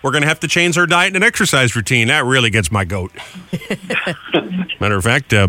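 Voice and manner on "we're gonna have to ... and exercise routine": a hint of a stern doctor, pitched up; mock doctor. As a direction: lightly lecture like a doctor. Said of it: "when a doctor says that to you".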